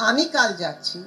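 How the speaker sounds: "আমি" punched at the start, the rest falling away; stress on আমি. Shown as a demonstration. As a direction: lean on "আমি" in the sentence. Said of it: "you'll stress some".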